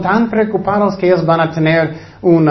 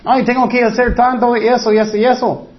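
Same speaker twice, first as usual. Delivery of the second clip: fretful worrier; 5 semitones higher than usual. Retold or imitated. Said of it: "Muchos son tan preocupados".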